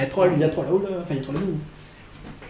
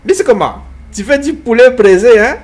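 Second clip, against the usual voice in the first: hammed-up African accent, raised and punchy; 3 semitones higher, 3 dB louder than usual. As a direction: put on a mock African accent, questions thrown out loud. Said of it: "comment il fait l'accent africain". (accent africain imité, exagéré)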